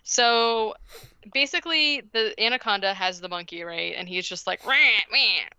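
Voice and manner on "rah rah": imitated orca sounds. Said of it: "making orca sounds".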